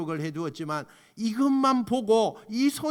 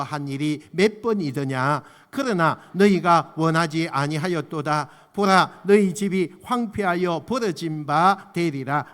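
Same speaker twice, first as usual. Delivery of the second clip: lamenting reading; 3 semitones lower, 6 dB louder than usual. Shown as a demonstration. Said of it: "같이 한번 읽어봅시다".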